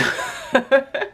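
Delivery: short high giggle; high laugh. Real, not acted. Amused at her own maths for viewers, giggling high. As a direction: let a bright giggle out.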